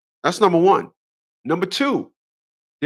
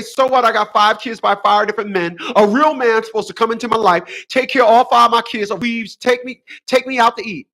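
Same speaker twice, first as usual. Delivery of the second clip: mocking women on social media; 3 semitones higher than usual. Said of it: "listen to women say".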